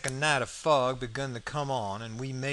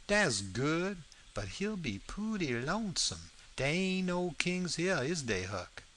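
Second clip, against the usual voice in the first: dialect character, mildly concerned; lightly voiced Jim; 4 semitones higher than usual. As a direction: ask Huck as Jim, in Southern dialect. Jim answers Huck in dialogue.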